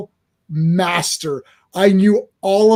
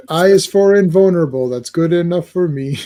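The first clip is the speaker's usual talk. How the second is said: Sesame Street quote. Retold or imitated. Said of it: "that's from, uh, Sesame Street".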